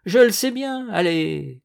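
high, loud burst of bitterness; angry outburst. Acted. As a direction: throw it bitterly at the betrayers. Farmhand's angry outburst at informers.

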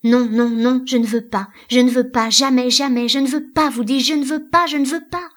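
loud, high, insistent cries; frantic refusal. A narrator's reading. Elida refuses to follow the stranger, frantic. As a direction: hammer out each refusal, climbing in pitch.

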